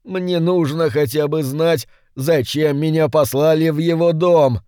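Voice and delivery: high begging little demon; pleading imp. A narrator's reading. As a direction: plead with the master, pitched high. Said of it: "взмолился Йетеринг".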